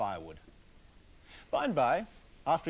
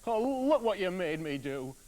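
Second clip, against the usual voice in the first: scolding woodcutter; 4 semitones higher, 5 dB louder than usual. Acted.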